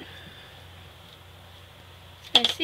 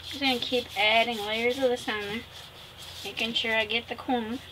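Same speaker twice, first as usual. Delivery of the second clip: hiccups. Real, not acted. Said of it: "We have the hiccups".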